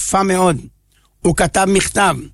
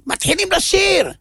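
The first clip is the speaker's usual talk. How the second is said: rising preacher's cry; excited outburst; 10 semitones higher than usual. Acted. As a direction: exclaim it with wonder. Preacher exclaiming about the singing.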